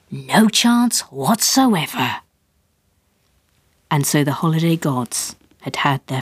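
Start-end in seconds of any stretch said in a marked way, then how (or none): 0.1-2.2 slow, drawn-out and firm; emphatic refusal. A narrator's reading. Father firmly refuses the suppository, slow and drawn out. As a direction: spell it out word by word.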